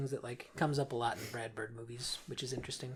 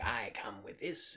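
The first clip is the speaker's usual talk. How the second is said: mock Jafar accent; 4 semitones lower, slower than usual. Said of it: "more of an accent to his voice".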